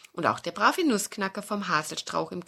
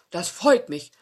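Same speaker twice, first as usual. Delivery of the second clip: louder, odd fox voice; welcoming fox; 6 dB louder than usual. Acted. Fox invites guests into cave, welcoming fox. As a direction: invite them in warmly.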